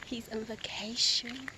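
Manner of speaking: soft whispered aside. Real, not acted. Whispering a joke to the camera about him. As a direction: whisper it so he won't hear.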